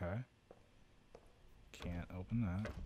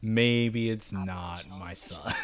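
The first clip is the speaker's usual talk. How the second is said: slow, louder sarcastic drawl; 6 dB louder, slower than usual. Real, not acted. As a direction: say it with dry disbelief. Sarcastic about dismembered body.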